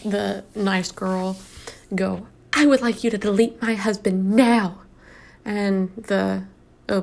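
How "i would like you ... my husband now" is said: mock demanding wife. Reads out the nice girl's demand.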